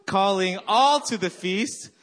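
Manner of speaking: "all" punched high and stretched; stress on ALL. Shown as a demonstration. Pastor leading church vision chant, stress on "all". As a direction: hit the word "all". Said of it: "you emphasize every syllable".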